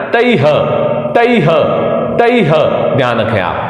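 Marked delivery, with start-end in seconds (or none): 0.1-2.5 तैह drawn out, with a full आई and a clear final ह; clear visarga. Shown as a demonstration. Teacher showing the visarga in तैह. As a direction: stretch तैह and breathe out the ह. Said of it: "विसर्ग का उच्चारण भी अच्छे से करना है".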